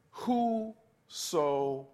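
"whosoever" stretched very slow; drawn-out whosoever. Shown as a demonstration. Preacher prompting the church to say the word, very drawn out. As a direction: hold out "whosoever" slowly for the congregation to repeat. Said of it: "say whosoever".

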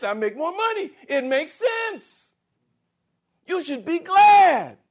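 high, loud, insistent pleading; mock believer justifying bad choices, high and loud; mocking self-justifying prayer. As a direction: shout excuses at God.

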